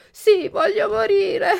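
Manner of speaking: high, loud voice cracking into sobs; breaking into sobs. Acted. Puppet begging to die at the grave, sobbing loudly. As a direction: let the words break down into crying. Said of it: "E piangendo diceva".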